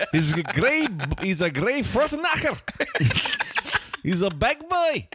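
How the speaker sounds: put-on Scottish accent. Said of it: "It slips into Australian".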